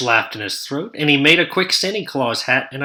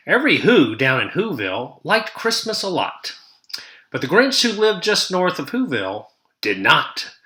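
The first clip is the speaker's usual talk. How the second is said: lively singsong read-aloud rhythm; storybook narration; 3 dB louder than usual. A narrator's reading. Teacher reading the Grinch to her class, lively storytelling. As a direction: read it like a picture book to kids.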